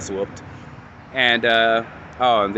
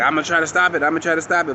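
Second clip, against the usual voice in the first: higher, urgent repeated vow; desperate promise; 5 semitones higher, much faster than usual. Retold or imitated. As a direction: promise it twice with rising panic. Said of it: "he like".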